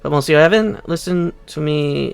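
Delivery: a lightly put-on French accent, self-conscious; amateur French accent, unsure of the words; attempted French accent. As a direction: fumble through a fancy French accent. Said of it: "he probably has French accent".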